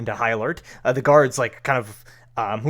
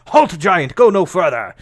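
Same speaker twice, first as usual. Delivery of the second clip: loud, commanding guard's shout; guard shouting halt; 7 semitones higher, 12 dB louder than usual. Acted. City guard orders the giant to halt, loud commanding shout. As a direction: bark the order to stop the giant. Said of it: "one of them is just like".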